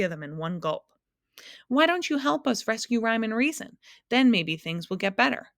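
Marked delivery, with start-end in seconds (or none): 1.7-5.5 high, loud urgent plea; boy shouting up at the giant. A narrator's reading. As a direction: call out urgently to be heard. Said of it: "shouted Milo again".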